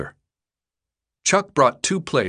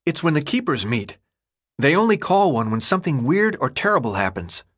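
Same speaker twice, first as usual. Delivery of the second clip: put-on higher, eager young boy; 4 semitones higher than usual. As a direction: voice the kid Chuck, proud. Chuck's voice in the story.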